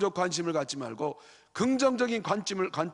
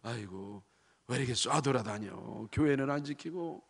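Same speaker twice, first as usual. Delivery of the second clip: grumbling critic; 5 semitones lower, 3 dB quieter than usual. Retold or imitated. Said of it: "부정적인 사람은".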